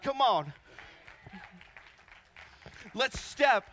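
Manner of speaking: emphatic, driving sermon delivery; rousing preaching. Acted. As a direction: preach it out with punched key words. Preaches at full force.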